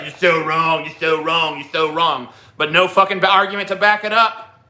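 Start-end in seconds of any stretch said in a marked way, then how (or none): 0.0-2.3 lightly lisped, repetitive mocking chant; a hint of a dopey lisping heckler; mock naysayer. Host imitates chatters with no argument, lisping mockery. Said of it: "I'm tired of just like".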